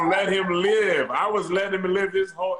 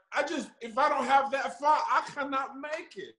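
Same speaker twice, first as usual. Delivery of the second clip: higher, laughing mock-mopey voice; half-laughing fake sorrow; mock sad; 6 semitones higher than usual. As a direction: tease him by whining like he did. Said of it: "He was so sad".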